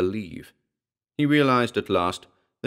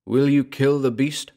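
sonorous voice; 6 semitones higher, 4 dB louder than usual. A narrator's reading. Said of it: "in a sonorous voice".

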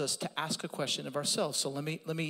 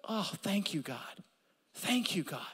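hushed thanks; 4 dB quieter than usual. Real, not acted. Grateful whispered aside to God.

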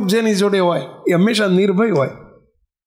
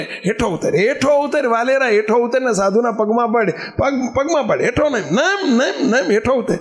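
insistent, repeated order, pitched up; mock scolding, jumping higher on repeats; acted stern command; 5 semitones higher than usual. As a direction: play a fearless monk ordering someone down. Monk orders bandit off horse.

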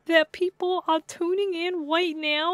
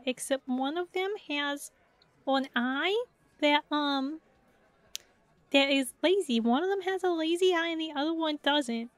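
uwu voice. Pretend. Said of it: "I'm trying to do the uwu voice".

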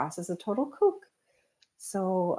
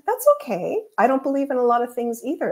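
breezy retort; 4 semitones higher, 3 dB louder than usual. Retold or imitated.

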